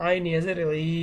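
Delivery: final ই held long for one alif; lengthened ee sound on ই; long ই vowel. Shown as a demonstration. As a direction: spell it out, then stretch the ই into a long ee. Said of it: "দীর্ঘ করিয়া".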